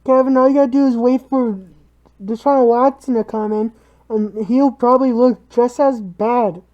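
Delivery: muffled voice behind a mask; muffled through a mask. Real, not acted. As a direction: talk through a mask over your face. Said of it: "Hopefully you can hear Nate with his mask on".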